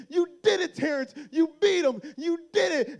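high, loud joyful praise; mom cheering. Retold or imitated. Mom hugging her winning son, high and loud. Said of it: "she goes".

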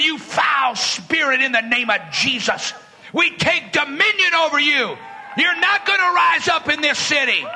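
a declaring shout against a spirit; shouted rebuke. Retold or imitated. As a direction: rebuke it with full authority.

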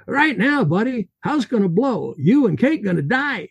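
put-on Russian accent, high and urgent, slowing on the last words. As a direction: press him hard in a Russian accent. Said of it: "His Russian accent heavy".

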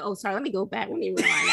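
put-on catching herself mid-country accent, laughing; pulling back the country voice with a laugh; mock code switch. Friend on the podcast correcting her own accent, laughing. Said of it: "I be having a country".

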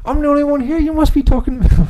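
high, a bit fast hammed-up Italian accent; worst Italian accent. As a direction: keep up the bad tough-guy Italian voice. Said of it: "That was the worst Italian accent ever".

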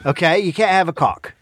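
rough put-on Australian voice; Australian accent that may fall apart; attempted Australian accent. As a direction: imitate an Australian podcast host. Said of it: "try and do an Australian accent".

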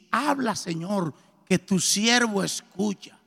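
slow, soft and reverent; slow prayerful words. Retold or imitated. Pastor teaching him the prayer to say, slow and soft. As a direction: lay each word down gently as a prayer. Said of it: "te arrodillas y dices".

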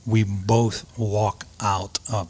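slow, whispered and moved; emotional whisper. Real, not acted. Widower recalling his wife walking out alive, whispered. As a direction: barely get the words out, overcome. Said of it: "I'm gonna get a little emotional".

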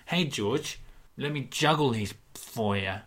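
Gary sweetly offering to juggle George's marbles, slyly; Gary's offer. Retold or imitated. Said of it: "he offers to juggle your marbles".

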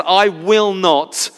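half-shouted, drawn-out refusal. Retold or imitated. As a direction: imitate a determined cry, word by word. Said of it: "He cries even louder".

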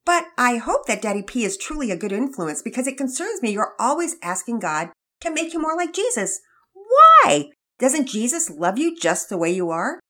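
a mother fretting over her son; worried mother. Acted. Mother voiced in read story.

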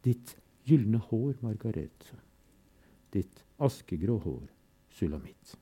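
measured, grave recital with refrains; solemn poem reading. Acted. Reading Todesfuge aloud to listeners, grave and measured. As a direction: let the fugue's repetitions toll.

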